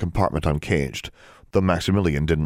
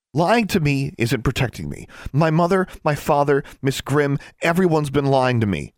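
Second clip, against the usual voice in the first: higher-pitched, hurt complaint; wounded, pitched up but less than a shout; quieter hurt voice; 9 semitones higher than usual. A narrator's reading. Sister hurt by everyone's lies, quieter reproach. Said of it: "said in a quieter voice".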